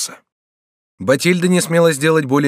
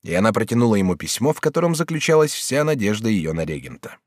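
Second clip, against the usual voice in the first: usual speaking voice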